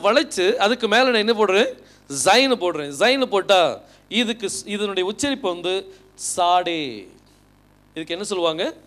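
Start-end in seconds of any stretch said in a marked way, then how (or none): 6.1-7.0 சாடே with an opening "ts" sound, drawn out slowly; ts pronunciation. Shown as a demonstration. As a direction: start சாடே on "ts" as in "its". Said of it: "இட்ஸ் அப்படிங்கிற sound வரணும்". (சாடே-வை "ட்ஸ்" ஒலியுடன் இழுத்து உச்சரித்து)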